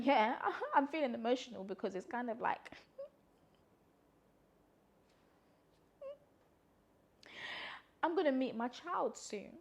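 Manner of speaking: laughing to hold back tears; giggling while getting emotional. Real, not acted. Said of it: "No, I'm actually gonna cry".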